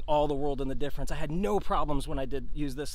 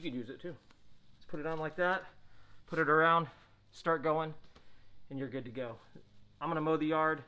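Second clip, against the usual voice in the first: muffled behind neoprene mask; speaking through respirator valves; through a face mask; 4 dB quieter than usual. Real, not acted. Seen 1: Mask covers mouth and nose throughout; put on just before.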